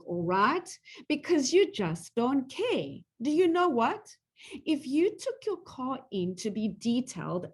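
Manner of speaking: rising, accusing, pitch jumping up on the questions; hurt, angry wife. Acted. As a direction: throw his excuse back at him, stung and furious. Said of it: "She really got into that".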